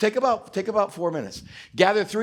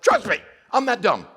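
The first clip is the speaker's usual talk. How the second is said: emphatic comeback; 2 semitones higher, 4 dB louder than usual. Retold or imitated. His emphatic comeback to doubters.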